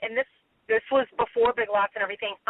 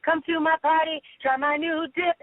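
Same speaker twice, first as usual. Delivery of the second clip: higher-pitched ad line; reenacted commercial; 5 semitones higher than usual. Actress retelling the party scene from her commercial, commercial voice. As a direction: recite the commercial line in a raised voice. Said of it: "and it goes".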